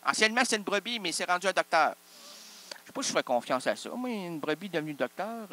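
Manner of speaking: usual speaking voice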